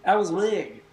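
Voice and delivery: playful sportscaster impression, dropping away at the end; Harry Carey. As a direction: draw out the wow like a ballgame caller. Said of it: "That was my Harry Carey voice".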